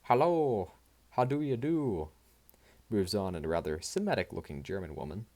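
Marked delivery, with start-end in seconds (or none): 0.0-2.1 mock Yiddish accent, higher and louder; lightly hammed-up Jewish accent greeting. The speaker on the radio mocking a Jewish woman, hammed-up Jewish accent. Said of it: "Then she spoke in a Jewish accent".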